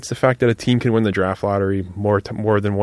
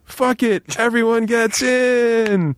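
infomercial pitch; 12 semitones higher, much slower than usual. Pretend. Infomercial skit punchline again.

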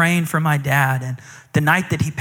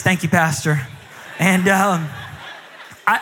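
usual speaking voice

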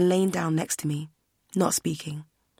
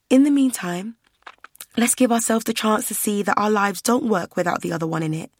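desperate plea; 4 semitones higher than usual. Acted. Verity pleading desperately.

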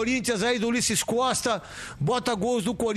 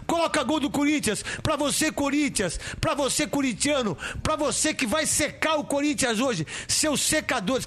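raised, hyped up announcer pitch; hype intro voice; 4 semitones higher than usual. Real, not acted. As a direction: pump up the fans. Hyping Corinthians goals intro.

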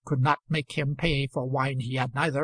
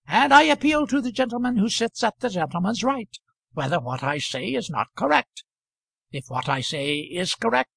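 higher, fussy protesting voice, lightly done; offended Kantwise; 4 semitones higher than usual. Acted. Kantwise objecting to Moulder's word gammon, higher and fussy. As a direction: bristle politely at the word.

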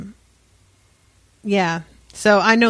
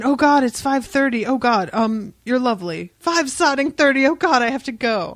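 flustered British guy; 5 semitones higher than usual. Retold or imitated. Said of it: "British guy".

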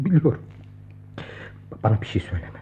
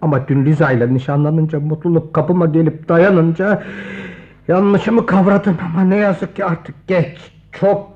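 louder and slower, swelling regret; anguished outburst; 5 dB louder than usual. Acted. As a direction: cry out the regret. (pişmanlıkla yükselen haykırış)

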